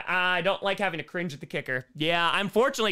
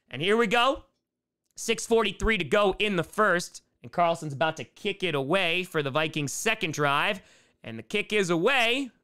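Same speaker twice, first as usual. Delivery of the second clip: measured live football commentary; play-by-play. Real, not acted. Streamer calling the kickoff to viewers, play-by-play. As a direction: call the kickoff as it happens.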